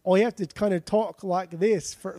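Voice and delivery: a clumsy try at the Queen's English; hammed-up Queen's English, drifting Australian; bad English accent. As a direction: attempt a posh English accent and miss. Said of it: "that's fucking terrible".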